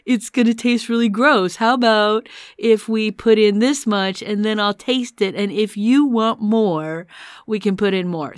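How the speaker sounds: lightly imitated talking to a seven-year-old; a hint of coaxing a small child; explaining to a child. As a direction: gently reason with a little kid. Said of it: "like you would a seven-year-old".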